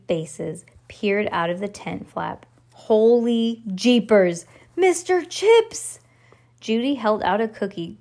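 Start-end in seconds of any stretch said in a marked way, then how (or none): 2.7-6.0 amazed delight. A narrator's reading. Kids spot their lost puppy, amazed delight. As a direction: exclaim in joyful astonishment.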